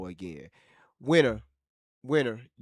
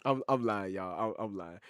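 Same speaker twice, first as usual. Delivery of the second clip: much softer, lower, sheepish; sheepish admission; 7 semitones lower, 6 dB quieter than usual. Real, not acted. Streamer admitting his own mistake, soft and sheepish. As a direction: own up quietly to the chat.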